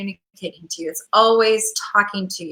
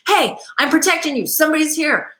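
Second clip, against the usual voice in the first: dog's voice; 7 semitones higher than usual. Retold or imitated. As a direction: speak as the dog warning its owner. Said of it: "their barking is like".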